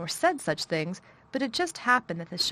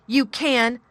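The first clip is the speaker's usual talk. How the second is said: high, loud shout; girl shouting at sobbing boy; 5 semitones higher, 10 dB louder than usual. A narrator's reading. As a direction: snap it back at him. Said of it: "shouted Mary".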